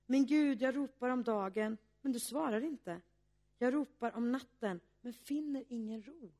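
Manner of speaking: pleading recitation, loudest on the second Min Gud; lamenting psalm cry. Acted. Preacher reading Psalm 22 to the congregation, as an anguished lament. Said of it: "det här ropet som man kan känna när man är i misströstan".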